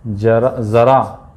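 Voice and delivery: जरा with plain ja, then ज़रा with buzzing z, slowly; ja then za contrast. Shown as a demonstration. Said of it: "दोनों में अंतर है उच्चारण".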